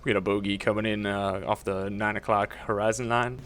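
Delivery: a hint of a pilot calling in on the radio. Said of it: "you sound like you're flying a helicopter".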